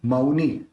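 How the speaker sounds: मौनी said as "मऊ-नी", gliding a into u. Shown as a demonstration. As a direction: open मौनी into two vowels, मऊ, not a flat मौ. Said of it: "मौ नहीं करना, मऊ करना".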